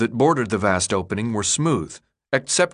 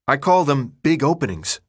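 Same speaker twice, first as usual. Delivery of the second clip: sarcastic; 4 semitones higher than usual. Acted. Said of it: "trying to counter ... with sarcasm".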